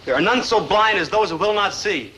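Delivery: mock solemn proverb.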